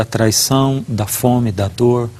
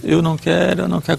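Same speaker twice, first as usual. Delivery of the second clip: put-on crying child; 5 semitones higher, faster than usual. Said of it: "Começou a chorar de novo".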